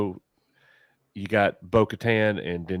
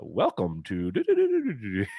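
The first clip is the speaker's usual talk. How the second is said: automated announcer voice; 3 dB quieter than usual. Retold or imitated. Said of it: "the automated voice like".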